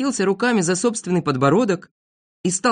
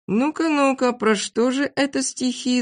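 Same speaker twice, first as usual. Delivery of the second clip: high, curious coaxing; intrigued; 8 semitones higher than usual. A narrator's reading. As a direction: ask with eager interest. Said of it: "заинтересовались все". (заинтересованно)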